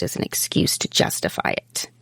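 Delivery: unvoiced hushed aside; whispering. Real, not acted. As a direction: breathe it out in a whisper. Drops to a whisper.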